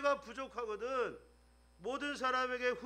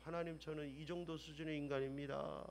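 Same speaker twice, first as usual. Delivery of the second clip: humble prayer; 7 semitones lower, 12 dB quieter than usual. Retold or imitated.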